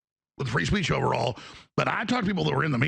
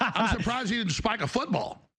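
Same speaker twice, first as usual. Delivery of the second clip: laughing; 7 semitones higher than usual. Real, not acted. Laughing while joking.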